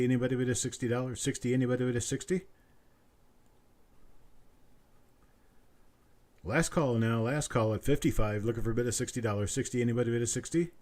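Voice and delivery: quick steady auctioneer patter; auction bid calling. Acted. Auctioneer calls for the next bid in brisk patter. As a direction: keep the bids rolling like an auctioneer.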